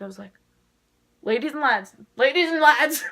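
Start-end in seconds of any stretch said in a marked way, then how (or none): 1.2-1.9 loud, thrilled call to the crowd; excited announcement. Retold or imitated. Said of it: "I flipped". 2.2-3.0 louder excited shout. Retold or imitated. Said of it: "I flipped".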